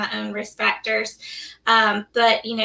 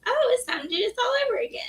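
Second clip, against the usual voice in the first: mock exasperation; 13 semitones higher, 3 dB quieter, much faster than usual.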